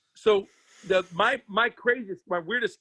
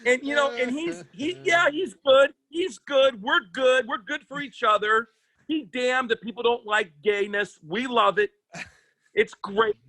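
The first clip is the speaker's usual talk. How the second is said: campy gay persona; 4 semitones higher than usual. Pretend. Comic playing gay lover bit.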